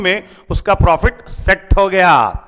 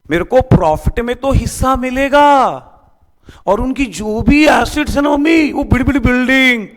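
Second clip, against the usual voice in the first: put-on excited child boasting; 4 semitones higher than usual. Kajju excitedly boasts to mummy.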